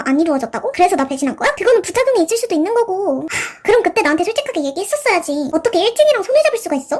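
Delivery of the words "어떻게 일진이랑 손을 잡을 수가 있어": higher, indignant reproach; indignant outburst. Acted. Owner confronting her friend about the bully, higher indignant outburst. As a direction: demand an answer, outraged.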